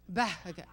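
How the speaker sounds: "Beckett" in two separated, clucked syllables; chicken-like pronunciation. Shown as a demonstration. Wife shows audience husband's name, clucking "Beckett". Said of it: "feel like that chicken's coming out".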